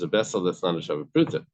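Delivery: weight on "not a shava pruta", rising at "pruta"; emphasis on SHAVA PRUTA. Shown as a demonstration. Teacher showing Rav Sheshes's reading, stressing "not a shava pruta". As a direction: lean on "shava pruta" to mark the point. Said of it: "The emphasis is".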